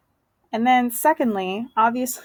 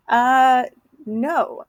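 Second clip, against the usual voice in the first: mock-shocked refusal, pitched up; upset, shocked; 5 semitones higher, 3 dB louder than usual. Juliet hears her mother's wedding news, mildly acted shock. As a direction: retell a taken-aback daughter's objection, higher. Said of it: "is upset and shocked".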